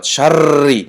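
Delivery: شری with a long rolled r; over-trilled ra. Shown as a demonstration. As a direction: say شری wrongly, rattling the ra too long. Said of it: "تکریر زیادی بد نشود". («شری» бо рои бисёр такроршаванда)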